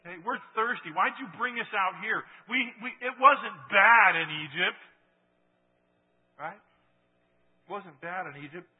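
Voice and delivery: whiny mock Israelites complaining; hammed-up grumble, building loud; mock grumbling. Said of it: "all they can do is grumble".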